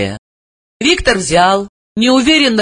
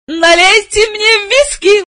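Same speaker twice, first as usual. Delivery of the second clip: high, slow forced cheer; cheerful shout; slower than usual. A narrator's reading. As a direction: call out brightly, hiding dread. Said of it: "весело крикнула".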